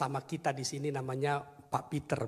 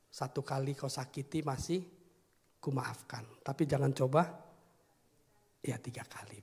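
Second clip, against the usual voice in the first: quoting a song. Retold or imitated. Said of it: "Sampai ada lagu kan".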